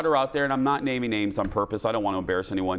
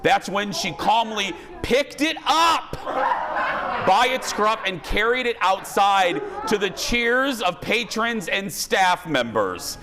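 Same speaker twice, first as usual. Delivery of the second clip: laughing delivery; 6 semitones higher, slower than usual. Real, not acted. Host relishes funny possum story.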